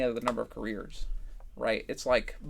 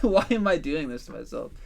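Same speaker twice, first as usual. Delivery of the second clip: exasperated self-questioning; 2 semitones higher, 5 dB louder than usual. Retold or imitated. Tired at the computer asking oneself why, mock exasperation. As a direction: question yourself in playful frustration.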